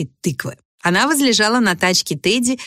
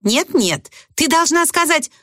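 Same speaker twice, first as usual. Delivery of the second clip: ordinary voice; 8 semitones higher than usual. A narrator's reading. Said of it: "обычным голосом произнесла фея крестная".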